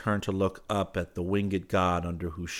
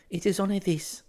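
put-on high, gentle girl's voice; 13 semitones higher than usual. A narrator's reading. Girl introduces her small favor, gently. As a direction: say it delicately, pitched up. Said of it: "she said gently".

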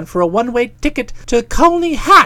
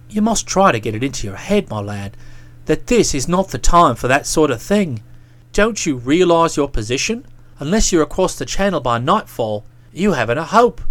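put-on a lightly lowered, stern young man; stern lecturing friend; 11 semitones lower, 3 dB quieter than usual. A narrator's reading. Boko scolding Bertie for dawdling, a hint of sternness. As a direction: talk down to him like a disapproving friend.

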